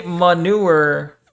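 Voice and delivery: manure said as muh-NOO-er, drawn out; slow "manure" with a clear oo in the second syllable; pronouncing manure. Shown as a demonstration. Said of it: "many pronounce it manure".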